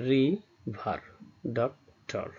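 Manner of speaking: "রিভার, ডক্টর" split into syllables with clear pauses. Shown as a demonstration. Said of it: "যতটুকু অংশ একবারে উচ্চারণ করা যায়". ("রিভার, ডক্টর" ভেঙে ভেঙে, প্রতিটি সিলেবল আলাদা করে)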